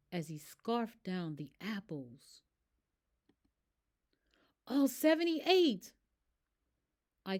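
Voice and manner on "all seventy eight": astonished whisper; amazed whisper. Acted. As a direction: whisper it in disbelief. Amazed at apples eaten.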